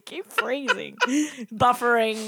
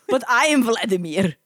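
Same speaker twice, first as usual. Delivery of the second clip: bad Russian accent; 5 dB louder than usual. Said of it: "this is not very good accent".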